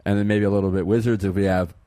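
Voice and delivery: hiccuping mid-sentence; hiccups. Real, not acted. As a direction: voice caught by hiccups. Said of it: "keep hiccuping".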